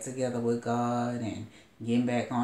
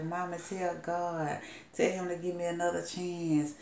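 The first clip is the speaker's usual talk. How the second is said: grieving daughter pleading through tears, lightly acted; imitated wailing plea; 7 semitones higher than usual. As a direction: retell her crying out to mama to pray. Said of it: "And she cried so hard".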